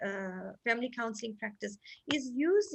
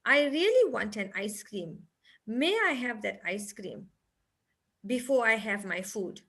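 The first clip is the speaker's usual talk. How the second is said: put-on polite child; 4 dB louder than usual. Shown as a demonstration. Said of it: "the other teddy bear who will speak nice and say".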